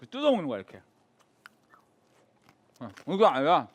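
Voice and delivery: talking while chewing crusty bread; words round a bite of bread; mouth full. Real, not acted. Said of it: "소리 들리지?".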